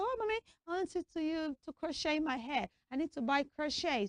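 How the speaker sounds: a hint of a child pleading to mother; girl asking mommy. Acts a daughter asking her mother.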